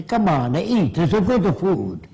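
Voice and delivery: playful hammed-up Italian accent; mock Italian accent. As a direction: coax someone to eat like an Italian mamma, in Italian accent. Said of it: "if you're brought up in Italy, you say".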